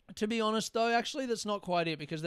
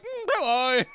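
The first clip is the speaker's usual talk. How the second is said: awkward hello; 10 semitones higher, 8 dB louder than usual. Retold or imitated.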